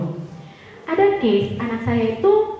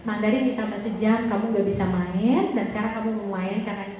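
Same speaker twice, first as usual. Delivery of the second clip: empathetic listening; 3 semitones lower, 4 dB quieter than usual. Retold or imitated. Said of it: "mendengarkan dengan empati".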